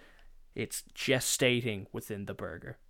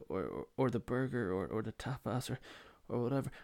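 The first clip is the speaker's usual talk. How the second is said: dithering, stop-start indecision; deer in headlights; 4 dB quieter than usual. Retold or imitated. Youngest brother put on the spot to order, mildly lost. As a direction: stall and stammer between choices, a little softer. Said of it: "He's like a deer in headlights".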